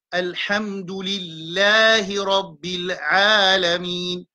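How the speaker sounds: slow, drawn recitation. Shown as a demonstration. Teacher reciting the Fatiha slowly for the class. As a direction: recite slowly, letting vowels stretch.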